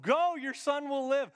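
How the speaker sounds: loud, slow repetition; proclaiming. Shown as a demonstration. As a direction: proclaim it slowly for the room. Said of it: "Repeat after me".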